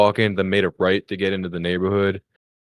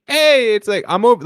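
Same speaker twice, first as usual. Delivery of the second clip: high-pitched imitation of a woman calling; mock high "over here" holler; 13 semitones higher, 5 dB louder than usual. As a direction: hail someone from a doorway. Teresa calls from her door.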